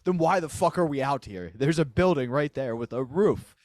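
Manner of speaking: retold indignant protest; exasperated retort. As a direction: act out baffled annoyance at the crowd. Retells exasperated retort to crowd.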